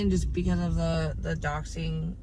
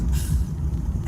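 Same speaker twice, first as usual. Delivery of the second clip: cop's long exhale, acted out; imitated sigh. Retelling a cop's reaction at a traffic stop, imitated sigh. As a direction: blow out a long mock sigh. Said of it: "he just goes".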